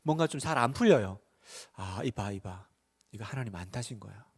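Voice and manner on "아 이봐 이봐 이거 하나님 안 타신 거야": very soft, low self-talk; acted hushed resignation; discouraged muttering. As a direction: mutter it to yourself, giving up. Acts out discouraged doubt.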